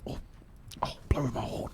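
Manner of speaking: breath-only creature whisper; whispering rhino. Acted. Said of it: "Why are you whispering?".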